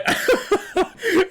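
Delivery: high burst of delighted laughter; giddy high laugh at the screen. Real, not acted. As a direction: laugh out loud with joy. Reacting to anime, overjoyed.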